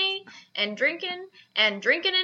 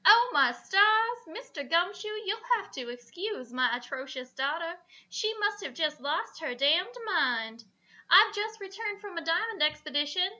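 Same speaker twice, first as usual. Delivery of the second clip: Southern belle voice; 3 semitones higher than usual. Acted.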